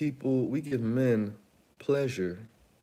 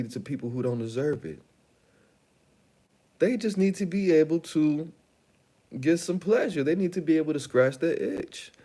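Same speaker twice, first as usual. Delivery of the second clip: excited pitch; 3 semitones higher than usual. Acted. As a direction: sell it like a rally crowd. Mock political pitch, excited.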